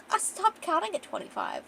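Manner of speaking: lightly voiced, high-pitched tipsy woman; high, giggly admission. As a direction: play her a little drunk.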